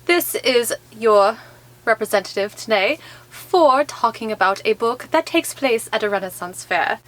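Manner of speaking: hammed-up faux Old English fair accent; a playful mock Renaissance fair accent; terrible Renaissance accent. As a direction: play a Renaissance fair herald in a badly faked Olde English accent. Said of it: "my terrible accent".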